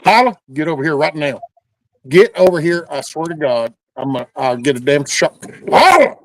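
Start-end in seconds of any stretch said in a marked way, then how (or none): 0.1-2.9 scolding by full name. Real, not acted. Owner ordering dog over. 5.7-6.2 high, loud yell of the name; scolding by full name. Real, not acted. Owner yelling at dog.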